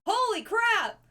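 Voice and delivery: high, loud, thrilled; excited shock. Real, not acted. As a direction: gasp it out, amazed. Surprise raid arrives.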